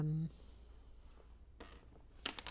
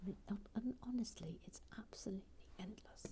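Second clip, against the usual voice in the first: quiet, slightly higher grumbling aside; muttering to self; 5 semitones higher, 10 dB quieter than usual. Real, not acted. Complaining to self that HR won't help, muttering. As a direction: grumble softly as if nobody is listening. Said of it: "Are you muttering to yourself".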